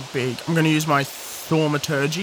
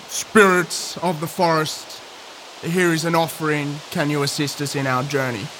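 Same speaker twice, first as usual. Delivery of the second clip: booming spirit-calling voice. Acted. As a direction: call out grandly, but not threatening. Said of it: "like a booming voice".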